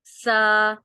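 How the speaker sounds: سا with the tongue tip slightly out, no whistle; letter demo. Shown as a demonstration. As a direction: say سا lisped between the teeth, no hiss. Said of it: "اس میں سیٹی کی آواز نہیں نکالیں گے".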